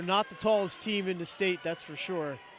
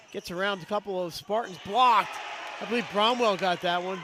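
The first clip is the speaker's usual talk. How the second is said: excited call; 2 semitones higher, 4 dB louder than usual. Real, not acted. Calling a blocked shot live.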